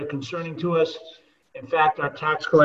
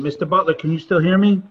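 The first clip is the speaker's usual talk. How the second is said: calling out; 8 dB louder than usual. Real, not acted. Testing mic, calling out loud.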